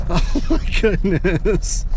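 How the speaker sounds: slow, melting laugh over a cute dog; laughing fondly. Real, not acted. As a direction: laugh through the words, charmed.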